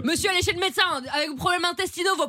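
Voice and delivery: high-pitched bawled tirade; bawling. Acted. Officer berating a vulgar suspect who complains about his eardrums, bawling. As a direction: bawl it over him, stretching the last words. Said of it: "Mais arrête de brailler comme ça".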